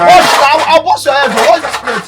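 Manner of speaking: angry threat. Acted. Threatening over broken plate.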